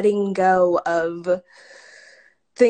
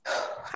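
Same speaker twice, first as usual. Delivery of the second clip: shaky sigh; 11 dB quieter than usual. Real, not acted. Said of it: "I'm trying not to cry".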